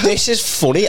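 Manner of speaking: comic snapping at his crowd, laughing insistence. Retold or imitated. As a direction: insist it's funny while laughing. Comic breaking, retold.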